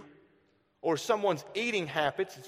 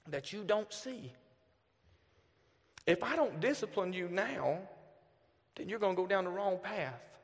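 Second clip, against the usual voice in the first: father quietly reassuring his daughter; tender father; 4 dB quieter than usual. Retold or imitated. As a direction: explain gently to a child.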